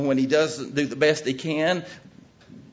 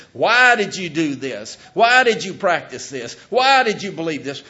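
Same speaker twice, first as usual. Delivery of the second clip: God questioning; 4 semitones higher, 8 dB louder than usual. Retold or imitated. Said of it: "and God says".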